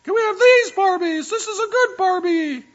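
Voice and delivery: put-on very high, loud girl voice; child pleading, pitch rising. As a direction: keep climbing in pitch as you beg. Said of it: "her voice kept getting higher in pitch".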